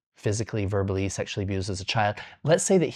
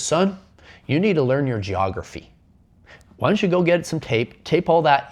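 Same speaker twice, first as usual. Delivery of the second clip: higher, louder lecturing father; bossy dad; 6 semitones higher, 4 dB louder than usual. Retold or imitated. Dad setting his son a map puzzle: louder, higher lecturing. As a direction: lay down the challenge like a know-it-all dad.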